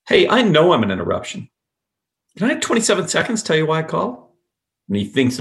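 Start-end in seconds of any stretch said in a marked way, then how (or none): 0.1-1.5 "know" hit hard and loud in the opener; hammered KNOW. Shown as a demonstration. Cold caller owning up to interrupting, hard stress on "know". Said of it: "in that hard, flat voice, hammering the word no". 2.4-4.4 higher voice that lifts at the end; playful, curious. Shown as a demonstration. Cold caller asking for a moment, playful and curious. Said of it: "You changed your voice to a playful, curious voice".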